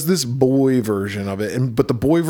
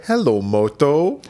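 slow, drawn-out ringtone voice; Motorola ringtone voice; 2 semitones higher, slower than usual. Retold or imitated. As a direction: imitate the phone jingle, slowly. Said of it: "the Motorola ringtone".

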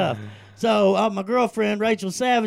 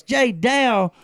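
excited; 5 semitones higher, 5 dB louder than usual. Real, not acted. Calling out to viewer.

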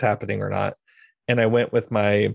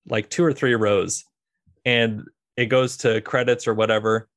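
usual speaking voice

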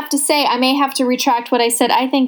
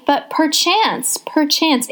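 mock-pompous; 4 semitones higher, much slower than usual. Mock-pompous film analysis.

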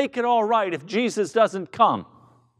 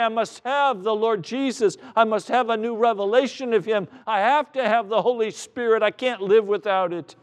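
higher, urgent plea, no louder; acted cry of need; desperate crying out; 4 semitones higher than usual. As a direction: plead as if you can't do without. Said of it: "cry out all the louder and say".

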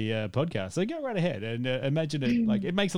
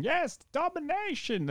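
high slow gloating villain; cackling villain; slower than usual. Retold or imitated. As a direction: crow it like a cartoon villain.

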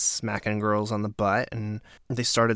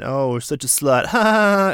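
mock laugh; 5 semitones higher, 8 dB louder than usual. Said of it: "he was saying".

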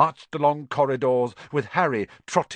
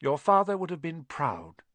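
fond; 6 semitones higher than usual. Acted. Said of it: "she suddenly smiled".

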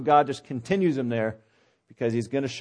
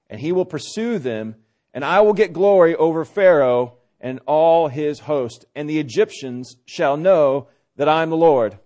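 scripture reading. Acted. Preacher reading chapter fourteen to congregation, measured scripture reading. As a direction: read the passage aloud with deliberate pauses.

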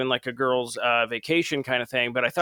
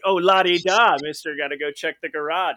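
louder sing-song mock of Moe; 4 semitones higher, 4 dB louder than usual. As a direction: tease him with a sing-song "la di da". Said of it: "and then Moe's like".

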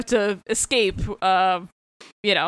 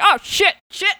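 higher-pitched mock panic; retold alarm; 10 semitones higher than usual. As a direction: blurt it like a comic miss. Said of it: "and he's like".

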